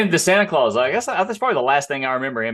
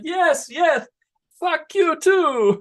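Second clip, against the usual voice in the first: high, slow falsetto, cheerfully insulting; drawn-out sweet comeback in a put-on voice; imitating the prince comeback; 3 dB louder, much slower than usual. Host replaying his TikTok reply to a heckler. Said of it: "And I'm like".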